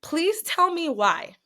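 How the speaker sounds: dramatic teaser. Real, not acted. Teasing build-up to the story.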